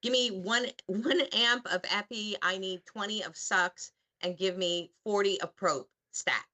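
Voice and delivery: urgent ER order, starting high; brisk, commanding medical call; emergency room talk. Pretend. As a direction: rattle off orders like a TV doctor. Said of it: "Can you bust one of those out quickly?".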